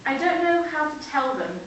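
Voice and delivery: measured verse, lifted openings and falling line ends; poem recital. Acted. Young writer reciting a poem on a fire, poem recital. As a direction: recite in short, separated phrases.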